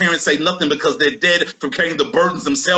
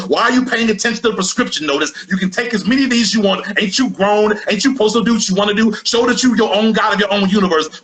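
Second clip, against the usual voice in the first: much higher, fast, coaxing voice of the pills; tempting pills; 9 semitones higher than usual. Acted. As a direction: sell it like a sly pusher egging him on.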